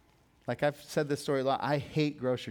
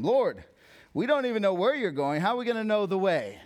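higher-pitched incredulous question; baffled protest; 6 semitones higher, 3 dB louder than usual. Retold or imitated. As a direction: retell a bewildered disciple protesting. Acting Thomas questioning Jesus, baffled.

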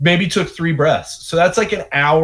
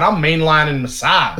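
silly put-on voice. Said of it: "in that voice".

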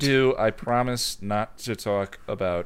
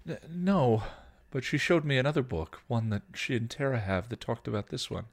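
put-on timid teen. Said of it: "Dawn recoiled a bit".

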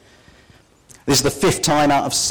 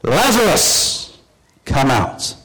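loud call; much slower than usual. Acted. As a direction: call him out of the tomb, slow. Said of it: "he cried out with a loud voice".

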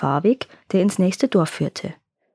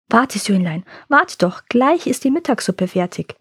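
comforting. Acted. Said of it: "tröstete ihn die Mutter".

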